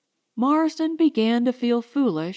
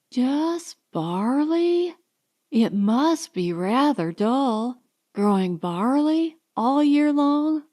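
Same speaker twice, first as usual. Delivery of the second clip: higher, slow, pitying drawl; condescending Allison; 3 semitones higher, slower than usual. Acted. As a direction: pity his dull farm life. Allison mocking his farm.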